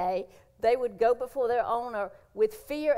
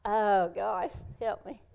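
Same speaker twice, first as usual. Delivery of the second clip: choked up; slower than usual. Real, not acted. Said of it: "I'm gonna get emotional again".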